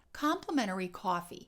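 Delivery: "coffee" with aw, "Complimentary" with open ah; Chicago vowel contrast. Shown as a demonstration. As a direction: echo "coffee" with a moderate aw. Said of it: "Did you hear that?".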